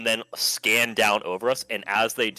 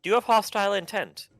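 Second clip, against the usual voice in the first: stern questioning; 11 semitones higher, faster than usual. Acted. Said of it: "look down at it".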